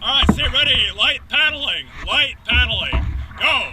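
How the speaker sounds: loud coxswain calls across the boat; shouted commands. Real, not acted. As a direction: call the commands out loud and firm. Coxswain calling paddle commands.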